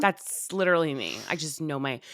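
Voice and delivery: stuffy, nasal sick voice. Real, not acted. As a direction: talk through a stuffed-up nose. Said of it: "do you hear my nasally voice".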